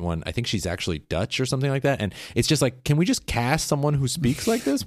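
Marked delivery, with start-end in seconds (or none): 2.8-4.9 high-pitched, incredulous complaint; exasperated rant at casting directors; exasperated plea. Retold or imitated. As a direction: plead in mock despair, pitched up and dragging at the end. Venting about bad film accents.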